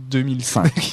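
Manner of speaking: Games Days said with an English accent; slow, anglicised brand name; English accent French. Real, not acted. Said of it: "tu peux le refaire en français?". (accent anglais sur Games Days)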